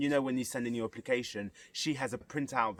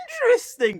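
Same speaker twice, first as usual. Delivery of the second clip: teacher's exaggerated intrigue; 9 dB louder than usual. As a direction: stretch it out in hammed-up fascination. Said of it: "every time she's like".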